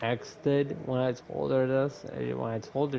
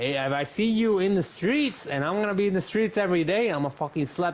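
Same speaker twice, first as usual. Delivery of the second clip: much higher, fast heated threat; retold angry threat; 6 semitones higher, faster than usual. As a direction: rattle off the threat hot and quick.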